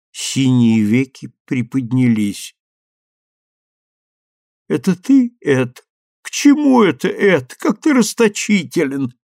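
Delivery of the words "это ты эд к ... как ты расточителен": high, light wife's voice; voiced young wife. A narrator's reading. Suzie voiced, high female voice.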